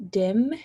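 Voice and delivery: "dim" said with a D for the J sound; disordered dim. Shown as a demonstration. Student demoing deaffrication, "dim" with D. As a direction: start "dim" with a plain D. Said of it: "saying dim instead of gym".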